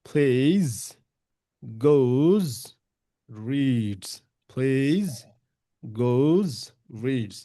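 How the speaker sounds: plays, goes, reads, each ending in a buzzing z; z endings drilled. Shown as a demonstration. Teacher drilling plays, goes, reads with voiced z. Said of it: "এগুলো হচ্ছে গিয়ে জ, vibration".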